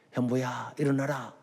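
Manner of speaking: hushed, softly spoken call to rise; soft divine call. Retold or imitated. God waking the young believer by name, soft call. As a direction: call gently, well below preaching level.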